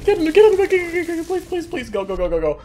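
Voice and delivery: frantic high yelling, begging; panicked screaming. Real, not acted. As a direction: scream it while being chased. Chased by monster, screaming.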